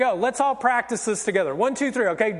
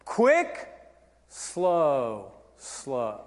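dance count; 9 semitones lower, 4 dB quieter, much slower than usual. Shown as a demonstration. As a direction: count dance steps, drawing out "slow". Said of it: "teach this as a dance".

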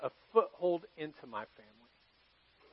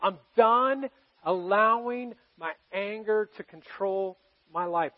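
a sincere, deliberate vow to God; model prayer. Shown as a demonstration. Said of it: "if you would just say".

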